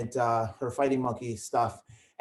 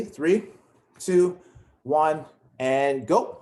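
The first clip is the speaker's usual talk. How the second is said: countdown call; 5 dB louder, much slower than usual. Real, not acted. Coach counts class into drill.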